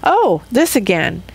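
open, accepting lift on this; greeting the same thing with gladness; glad acceptance. Shown as a demonstration. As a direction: welcome it like an old friend. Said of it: "or I can say".

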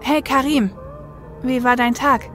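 upbeat check-in on someone at home; friendly greeting. Acted. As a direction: greet a withdrawn loved one gently but cheerily. Greets withdrawn Karim brightly.

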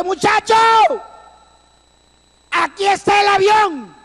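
high shout across the ravine, "Muchacho" ringing out; calling out. Retold or imitated. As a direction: call to the others that the plane is here. Rescuer calling out plane found.

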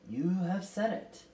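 ringing out. A narrator's reading. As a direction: pronounce it slowly and resoundingly. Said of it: "Miss Witch's voice rang out".

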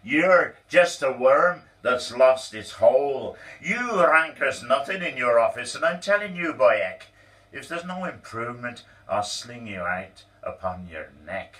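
loud, high furious rant; lost control. Acted. Boss throwing Donald out, furious shouted rant. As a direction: boss losing it, yelling at full volume. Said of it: "he lost his self-control".

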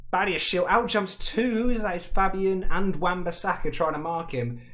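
high, loud, elated commentary; thrilled rush of match commentary; excited goal recap. Real, not acted. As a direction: still buzzing from the goal. Reliving the goal just scored.

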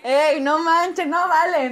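drawn-out, indignant whine; whiny protest. Real, not acted. Prankster whose joke was discovered, whiny protest. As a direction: protest it like a sore loser.

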